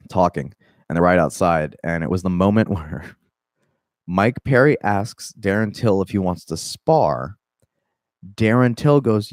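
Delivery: ordinary talk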